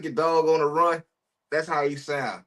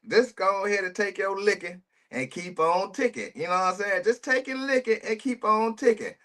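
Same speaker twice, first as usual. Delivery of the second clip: preachy lecture; 7 semitones higher than usual. Real, not acted. Preaching advice at the suspect.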